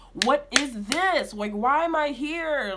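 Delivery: slow, drawn-out exasperated questions; retold frustration. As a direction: replay the frustration, stretching each question. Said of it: "being so frustrated".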